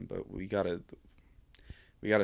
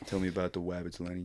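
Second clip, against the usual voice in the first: laughing Lennie quote; faster than usual. Retold or imitated. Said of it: "Think of the wabbits".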